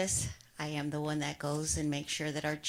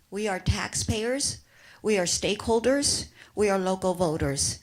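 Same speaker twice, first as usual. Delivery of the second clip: impassioned; 3 dB louder than usual. Real, not acted. Passionate public comment, building.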